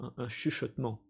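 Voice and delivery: narrated hushed ending; whisper. A narrator's reading. Game master closing the line in a hush. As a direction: drop the voice to a hush. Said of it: "il finit avec un, une, un susurrement".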